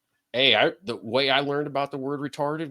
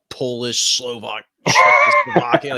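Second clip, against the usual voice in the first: mock proud; 5 dB louder than usual. Real, not acted. Telling cohosts about Polish roots, with a mock proud shout. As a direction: belt it out in hammed-up pride. Listing heritage with mock fervour.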